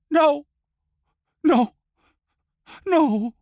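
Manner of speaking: high, loud screams of no; anguished scream. A narrator's reading. Tifila screams at execution.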